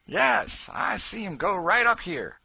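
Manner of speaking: a loud, coarse bully; Tom Locker, coarse slave catcher. A narrator's reading. Tom to the posse, boastful bluster.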